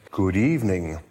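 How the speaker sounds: a hint of a lowing, courteous cow; lowing animal. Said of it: "it lowed".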